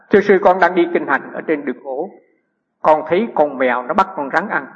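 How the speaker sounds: reciting a letter from the page, clearly projected; reading aloud. Acted. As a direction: read out a written question. Reads a student's written question.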